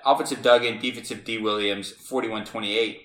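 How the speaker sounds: breathless from reading fast; out of breath. Real, not acted. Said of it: "I'm running out of breath".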